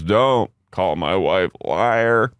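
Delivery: lightly imitated drunk, slow; a hint of wasted husband, dragging the words; slow mock-drunk objection; retold drunk. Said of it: "And Justin's wasted".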